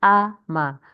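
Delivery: 'ama' split into a, then ma; syllable by syllable. Shown as a demonstration. Teacher showing class the syllables, 'ama' split in two. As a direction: break 'ama' after the first vowel. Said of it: "you can see ama".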